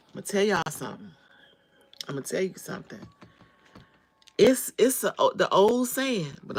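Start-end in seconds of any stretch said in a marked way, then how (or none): 0.1-3.0 whisper. Real, not acted. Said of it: "confiding to viewers".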